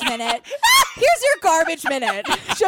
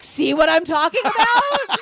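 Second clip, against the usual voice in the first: showy proclaim; 5 semitones higher, slower than usual. Retold or imitated. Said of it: "and be like".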